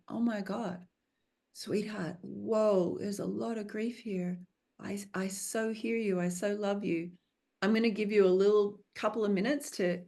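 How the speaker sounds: tender reassurance. Retold or imitated. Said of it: "and say to your young self".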